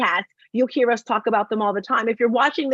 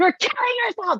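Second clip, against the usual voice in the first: very high, screaming, shrieking yell; 10 semitones higher than usual. Retelling getting mad at her on social media, reenacting yelling at her. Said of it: "And I'm literally yelling at her".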